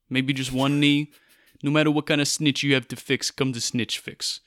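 lightly put-on tough-guy New York accent; mock mobster accent. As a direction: sell it like a wiseguy pitching his racket, New York accent. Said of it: "they did ask me to do this in an accent".

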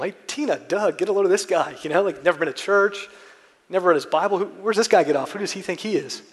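calling over friends. Retold or imitated. Calling others over to gawk.

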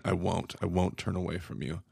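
a quiet tender promise; soft reassurance. Retold or imitated.

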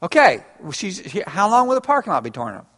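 lightly voiced wife, quick and fussy; a hint of a fussing wife asking about the parking lot; Peggy voice. Pastor voicing Peggy asking when the parking lot is fixed, mild mock fuss. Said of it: "read in your best Peggy".

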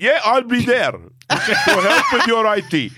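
mock Indian accent coming out German; botched Indian accent. Host imitating the new Indian correspondent, botched accent drifting German. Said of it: "You've just made him German".

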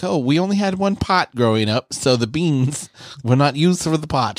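half-laughing retold excuse; high retold explanation. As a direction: explain it innocently, voice up. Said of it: "I'm like".

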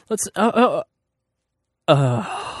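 frustrated grunts, starting high then dropping; frustrated sound. Retold or imitated. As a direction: stammer into helpless, frustrated "uh"s. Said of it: "That was my frustrated sound".

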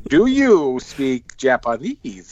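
each word drawn out very slowly. Retold or imitated. Repeating the question to a confused man, very slowly. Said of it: "he speak it slower to you".

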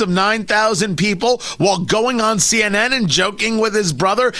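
mock-innocent question, heavy with irony; sarcastic retort. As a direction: feign surprise and pile on the scorn. Mocking what he told producer.

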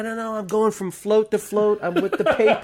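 high, brazen excuse; retold fast-talking press bluff; insistent bluff. Bluffs his way as a reporter.

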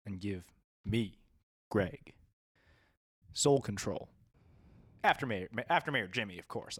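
low, quiet, lightly voiced gangster menace; low sinister gang boss; menacing gangster.

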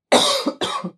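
sudden choking cough; real hacking cough; coughing fit. Real, not acted. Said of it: "Sorry, I'm choking".

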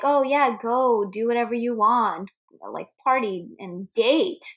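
"date" drawn out and set apart; emphasis on date. Retold or imitated. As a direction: lean heavily on the word "date", mimicking her. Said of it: "puts emphasis on the word date".

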